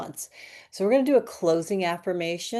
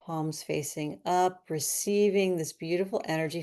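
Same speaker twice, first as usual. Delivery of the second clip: guided relaxation. Acted. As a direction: ease them into stillness, gently.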